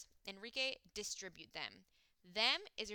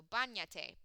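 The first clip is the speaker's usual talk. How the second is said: "bañate" with the first syllable punched, falling after; stress on first syllable; 5 dB louder than usual. Shown as a demonstration. Teacher showing where the accent falls, stressed first syllable of "bañate". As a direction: lean on BA in "bañate". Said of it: "second to last syllable has the accent".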